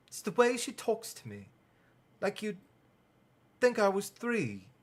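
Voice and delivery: a sulky sister's complaint; exasperated Ginny. Acted. Ginny complaining about mother.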